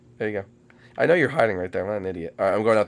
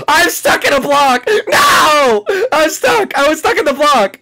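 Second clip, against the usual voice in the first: heated family shouting; 8 semitones higher, 5 dB louder than usual. Real, not acted. Stuck while being caught.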